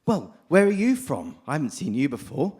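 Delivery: a small frog eyeing a stranger, lightly played; suspicious little frog. Speaker telling Vivekananda's frog story, lightly voicing a wary well frog. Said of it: "And the little frog says".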